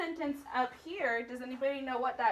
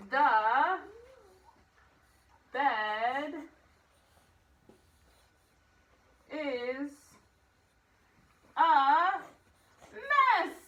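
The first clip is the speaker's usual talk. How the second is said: mom's exclamation, word by word; 3 semitones higher, 4 dB louder, much slower than usual. Shown as a demonstration. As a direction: spell it out with mounting mom energy. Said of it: "Can you hear Mom saying that in your head?".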